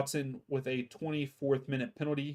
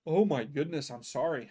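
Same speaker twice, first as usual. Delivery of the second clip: yawning. Real, not acted. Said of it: "I don't know why I keep yawning".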